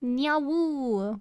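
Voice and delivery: wolf voice. Shown as a demonstration. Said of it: "What about nyawoo?".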